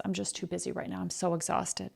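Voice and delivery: soft, drooping "I'm just so exhausted"; mock weary sigh. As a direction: mimic a drained complainer, softly.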